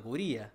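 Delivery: cubría stressed on the í, low; soft, low cubría with accented í. Shown as a demonstration. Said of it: "Con tilde en la I".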